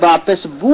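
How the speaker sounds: বু ending in a pure u; maruf vowel. Shown as a demonstration. Teacher confirming the correct reading, maruf vowel. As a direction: say বু with a closed u, never o. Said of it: "তাহলে মারুফ".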